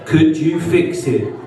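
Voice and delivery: put-on slow, earnest reading of a child's letter; reading childhood letter. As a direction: read it like a hopeful kid. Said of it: "it started off like this".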